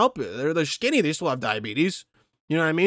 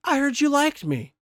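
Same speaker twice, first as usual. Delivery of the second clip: mock annoyed Biden; 5 semitones higher, slower than usual. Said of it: "he became annoyed and said".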